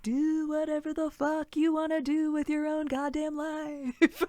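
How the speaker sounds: granny advice broken by laughter; laughing granny quote. Retold or imitated. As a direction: laugh while you repeat it. Repeats the granny line laughing.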